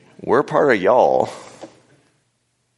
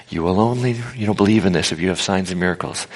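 prophetic, positive reading. Shown as a demonstration. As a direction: declare it as good news, evenly. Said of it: "prophetic sense".

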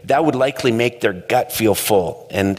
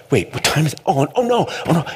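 much higher, alarmed oh no; panicked realization; 7 semitones higher, faster than usual. Retold or imitated. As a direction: jolt awake and panic. Waking up late in panic.

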